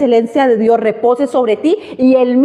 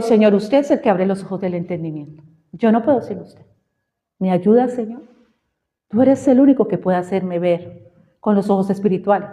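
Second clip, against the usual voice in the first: lower, softer prayer voice; retold humble plea; 4 semitones lower, 3 dB quieter than usual. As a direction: hand it over to God quietly.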